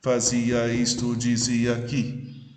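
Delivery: slow, measured scansion of "Fazia isto, dizia aqui"; syllable counting. Shown as a demonstration. Teacher proving the eight poetic syllables, slow syllable-by-syllable reading of "Fazia isto, dizia aqui". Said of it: "Oito sílabas poéticas".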